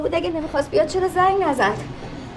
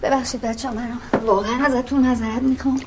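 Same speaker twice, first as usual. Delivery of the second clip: 1 subdued apology; 8 semitones lower than usual. Acted. Guest apologizing amid fight.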